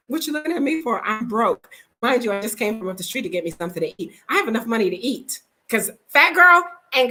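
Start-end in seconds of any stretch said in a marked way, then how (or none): 0.1-1.7 laughing retort. Retold or imitated. Retold reply, laughing.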